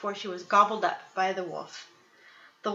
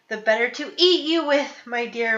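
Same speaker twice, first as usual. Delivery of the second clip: much louder, higher wolf roar; 4 semitones higher, 9 dB louder than usual. Acted. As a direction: roar it as he pounces. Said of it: "roared the wolf".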